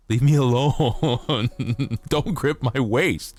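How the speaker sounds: hammed-up leave me alone; mock protest. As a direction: whine it out, pretend offended. Playful fake protest.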